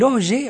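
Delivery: hoje said O-zhe, stress on the first o; Portuguese hoje. Shown as a demonstration. Host showing kids the Portuguese word hoje, stressed first syllable.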